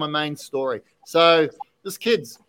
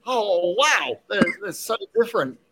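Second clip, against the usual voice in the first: higher, wondering wow; retold amazement; 6 semitones higher than usual. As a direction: let the difference surprise you. Voicing kid's amazement.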